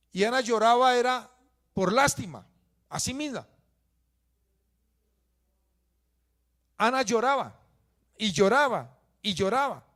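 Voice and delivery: loud, high sermon delivery; preaching at full force. Acted. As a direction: proclaim the verse to the whole church. (predicación a todo pulmón)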